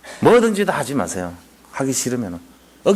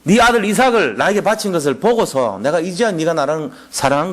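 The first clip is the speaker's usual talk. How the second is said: solemn proclamation; 3 semitones higher than usual. Retold or imitated. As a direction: proclaim it like a heavenly decree. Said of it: "딱 하는 말이".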